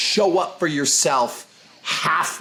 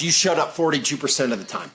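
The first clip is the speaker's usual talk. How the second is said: blunt rewording; faster than usual. Shown as a demonstration. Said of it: "other way to word it".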